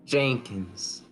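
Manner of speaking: put-on easygoing sweet Southern US accent. Player introduces water genasi Cascade to the table, sweet southern accent. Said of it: "Talks with the, as you can tell, sweet southern accent".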